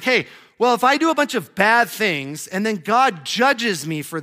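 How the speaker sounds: voicing the clever objector, lightly; mock objector. Pastor voicing a sinner's clever excuse, mock-smug.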